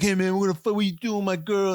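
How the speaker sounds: loud, high tough-guy challenge; mock angry Mike. Friend mimics Mike confronting Jeffrey, high and loud. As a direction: bark it up high like a jealous jock. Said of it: "Mike comes up and he's like".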